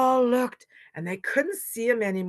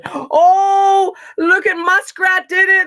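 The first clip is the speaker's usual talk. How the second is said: loud, high jubilant cry; cheering; 12 semitones higher, 14 dB louder, slower than usual. Acted. Animals see Muskrat surface with soil, cheering. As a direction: cheer a friend's triumph. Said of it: "they all cheered".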